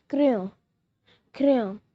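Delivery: crayon said kray-ON with a nasal end; French crayon. Shown as a demonstration. Teacher showing viewers how to say crayon, clear demo. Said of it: "We say pencil in French".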